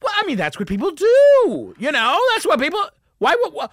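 loud, high screechy mock protest; flustered outraged woman. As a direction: sputter and wail in hammed-up indignation. Lady's last outburst, retold.

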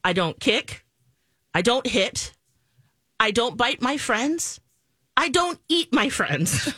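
lightly voiced small child reciting rules; hint of little-kid singsong; three-year-old. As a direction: imitate a preschooler, one careful rule at a time. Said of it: "the three-year-old comes home from school".

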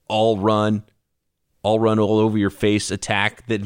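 normal talking voice

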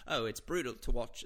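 put-on half-hearted stab at an Australian accent; bad Australian accent. Podcast host playing an Australian griping about tennis, weak Australian accent. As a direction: try an Australian accent and barely get there. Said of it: "about to do an Australian accent".

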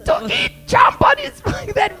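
high squeaky snake voice. Pretend. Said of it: "'cause snakes talk like that".

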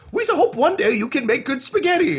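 high-pitched Gungan creature voice. Acted. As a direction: squeal it hopefully, high up, as a Gungan. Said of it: "the Gungans who raised him being like".

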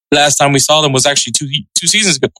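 words broken by hiccups; hiccupping mid-sentence. Real, not acted. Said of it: "Sorry for the hiccups".

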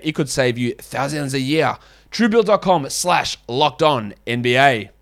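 ad read in a hammed-up French accent; light French accent put on for the ad; mock French accent. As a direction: read the sponsor spot like a cheesy Frenchman. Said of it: "French accent offends any French people".

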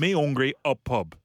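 mock Wigan speech with words dropped; Wigan accent. Shown as a demonstration. Host showing how Wigan locals miss words, Wigan accent. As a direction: imitate terse Wigan talk. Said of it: "it's the Wigan accent".

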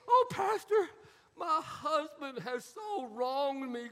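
a hammed-up wife fishing for sympathy; whiny young wife. Young wife complaining to her pastor, mock tearful. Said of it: "The young wife".

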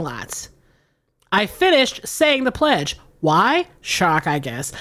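lightly performed letter reading; a hint of storyteller voice; email read aloud. Reads listener email aloud.

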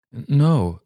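a high, stammering little no; frightened stammer. Acted. Child stammering to the strange old lady.

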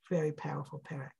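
soft unvoiced whisper; whispered aside. Real, not acted. Teacher whispers his awe at the chapter to the class. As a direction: breathe it in awe.

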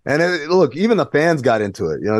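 ordinary talk, nothing marked

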